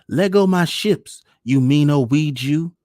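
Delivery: put-on very high, loud little-boy tantrum; screaming child. A narrator's reading. Young son scolds the weeds for stopping his ships, screaming. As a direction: yell it impatiently as a small boy. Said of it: "John screamed and stamped".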